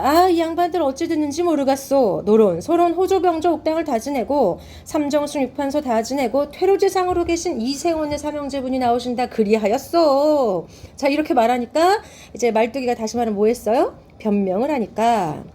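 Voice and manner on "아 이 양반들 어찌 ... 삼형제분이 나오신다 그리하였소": Malttugi making excuses. Acted. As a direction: plead your case like a mask-play servant. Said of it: "말뚝이가 변명을 합니다". (말뚝이의 연극조 변명)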